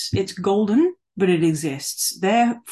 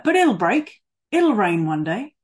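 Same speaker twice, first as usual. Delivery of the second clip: put-on Australian accent; 3 semitones higher, 4 dB louder than usual. Preacher quoting an old man in a drought town, Australian accent. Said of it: "I'll do an Australian accent for you".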